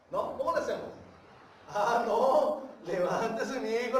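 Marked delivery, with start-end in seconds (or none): 1.7-4.0 parent scolding. Retold or imitated. Parent scolding own child.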